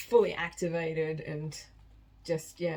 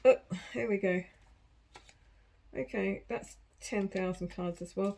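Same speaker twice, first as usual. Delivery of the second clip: ordinary talk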